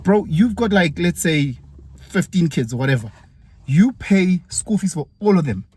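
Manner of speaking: you can't believe what he's paying for; incredulous. Retold or imitated. Teacher quizzing a polygamist father, high and incredulous.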